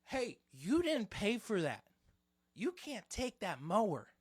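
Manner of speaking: slow, high-pitched scolding, imitating her; yelling old lady. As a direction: call out an accusation, drawn out. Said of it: "starts yelling at me".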